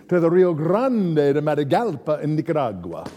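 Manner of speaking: put-on a light Spanish accent on the place name; Ricardo Montalban accent. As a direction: roll out Rio Grande de Matagalpa with a hint of Spanish flair. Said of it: "that was my Ricardo Montalban accent".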